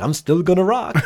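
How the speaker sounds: high, put-on British-style voice; a famous rocker in a shaky British accent; mock British accent. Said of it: "again, not a British accent".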